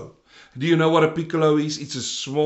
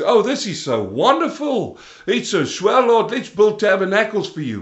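lightly acted gushing disciple, higher pitch; gushing Peter; 4 semitones higher, 4 dB louder than usual. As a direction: imitate an excitable extrovert, voice lifted a little. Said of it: "the big mouth, the extrovert".

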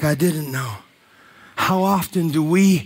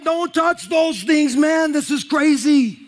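high, laughing, mock-panicked yell; freaked-out congregant; 10 semitones higher than usual. Imagining Jesus kneeling at his feet, high laughing mock panic. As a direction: play the guy yanking his feet away. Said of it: "I'm like".

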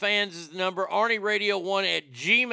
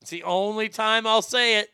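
higher, louder put-on Indian accent; comic Indian accent, pitched up; 4 semitones higher, 5 dB louder than usual. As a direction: repeat it in a hammed-up Indian accent. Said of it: "when I'm in that accent".

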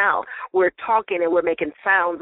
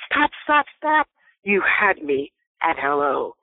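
movie line; 3 semitones lower, slower than usual. Retold or imitated. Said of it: "they know how to work their tonality".

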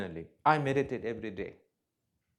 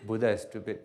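lower, calm, unbothered tone; calm agreement; 3 semitones lower, faster than usual. Retold or imitated. Rinpoche calmly agreeing with his critic, low unbothered tone. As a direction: agree serenely without a trace of defensiveness. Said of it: "I say".

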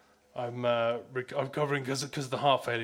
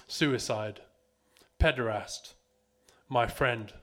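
poem recital. Acted. End of a performed poem.

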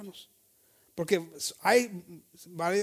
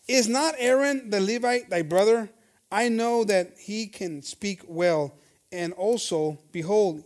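scripture reading; 2 semitones lower, slower than usual. Acted. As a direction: read it out slow and solemn like the pulpit Bible. Scripture read aloud.

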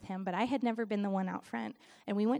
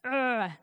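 short, loud "ugh"; disgusted groan; 5 dB louder than usual. Acted. Reacting to just coasting with gifts, disgusted groan. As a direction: groan out your distaste.

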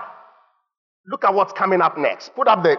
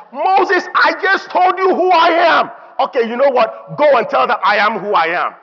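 high, loud exasperated shout at Moses; God losing patience, yelling; 8 semitones higher, 4 dB louder than usual. Retold or imitated. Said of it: "God was like".

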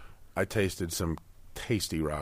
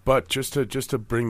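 smooth announcer voice, pitched up; polished radio-host segue; 6 semitones higher, 5 dB louder than usual. Acted. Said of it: "That's my radio voice".

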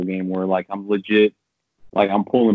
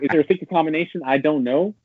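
higher, pleading and incredulous; mock desperate question; 8 semitones higher than usual. Player asking the game for a secret combo, pleading high. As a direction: beg the game for the trick.

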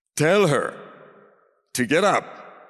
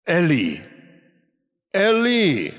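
imitated cry, second call rising higher; 5 semitones higher, slower than usual. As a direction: cry to a father, building on the repeat. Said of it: "cried out to his Father".

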